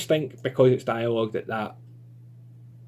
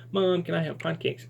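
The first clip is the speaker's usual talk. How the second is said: put-on a slightly higher little-girl voice; 5 semitones higher than usual. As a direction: beg Mom gently, childlike. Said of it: "what little Susie talks like".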